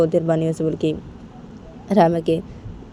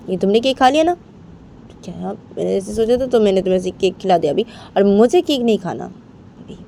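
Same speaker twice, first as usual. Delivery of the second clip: sulky refusal; 3 semitones higher than usual. Acted. Rama refusing Bani's cake, sulky and stubborn. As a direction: dig in your heels and refuse.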